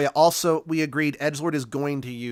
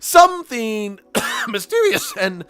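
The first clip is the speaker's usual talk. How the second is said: a slip into the other professor; wrong character voice; 8 semitones higher, 9 dB louder than usual. Acted. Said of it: "I was doing the wrong voice for that".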